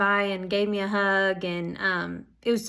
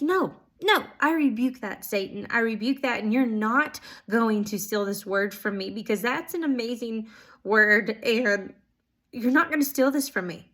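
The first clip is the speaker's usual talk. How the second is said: firm rebuke. Retold or imitated. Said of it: "So I rebuked him".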